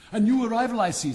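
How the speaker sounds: a merry frog bursting with glee; cheerful chatty frog. Acted. Frog character voice.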